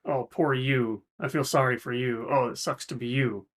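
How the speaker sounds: soft, pitying coo; mock pity. Therapist mimicking a pitying helper, soft condescension. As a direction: talk down to someone in pain, softly. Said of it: "the first rung ... which is".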